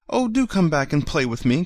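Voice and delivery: high pleading call; calling after them. A narrator's reading. Toy rabbit calling after the fleeing rabbits, high plea. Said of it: "called the little rabbit".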